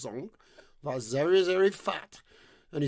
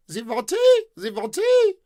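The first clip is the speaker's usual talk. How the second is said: deaf maiden; 13 semitones higher, 10 dB louder, slower than usual. Acted.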